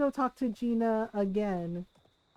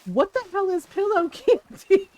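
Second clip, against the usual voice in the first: 1 exasperated sister; 6 semitones higher, 5 dB louder than usual. Retold or imitated. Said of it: "she goes".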